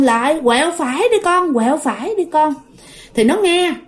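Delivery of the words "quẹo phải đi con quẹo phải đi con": repeated directions in a raised pitch; lightly acted urging, no real shout; imitated urgent calling. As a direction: mimic calling directions to a running child. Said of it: "cái người đó mới kêu".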